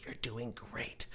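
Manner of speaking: put-on old lady reassuring. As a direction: gently soothe a nervous stranger. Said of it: "this little old lady sitting next to me goes".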